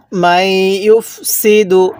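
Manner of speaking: drawn-out Quranic recitation; tajweed recitation pace; slow recitation. Shown as a demonstration. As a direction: chant it slowly, syllable by syllable. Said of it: "তাহলে".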